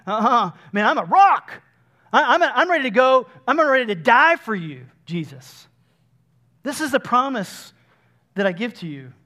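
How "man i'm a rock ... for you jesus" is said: bold boast. Acted. Peter's bold boast acted out.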